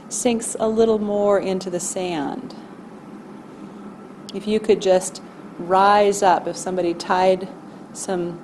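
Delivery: calm, measured meditation voice with long pauses; guided body scan. Acted. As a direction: gently guide listeners through noticing their body.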